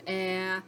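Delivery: "ah" as a short, isolated vowel sound. Shown as a demonstration. Teacher reviewing short A with second graders, short vowel sound. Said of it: "short A says".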